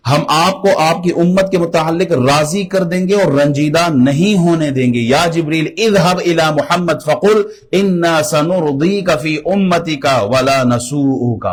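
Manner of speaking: impassioned declamation. Acted. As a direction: proclaim the promise, drawing out the Arabic words. Declaims divine promise, then Arabic original. (بلند آہنگ خطیبانہ تلاوت)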